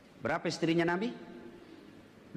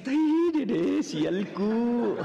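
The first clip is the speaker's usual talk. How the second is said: wife's complaint; 4 semitones higher, 5 dB louder, much slower than usual. Acted. Wife complaining in Nabi anecdote.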